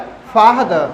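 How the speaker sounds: फादर as "faah-duh", r left silent; long aa. Shown as a demonstration. Teacher repeating the example, फादर with long aa. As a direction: draw out the aa in फादर, drop the r. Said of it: "बड़ा आ".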